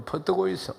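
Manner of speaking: lightly imitated Gyeongsang speech; Gyeongsang dialect. Shown as a demonstration. Preacher turning a welcome into Gyeongsang dialect. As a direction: say it as a Gyeongsang local would. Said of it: "경상도 말로".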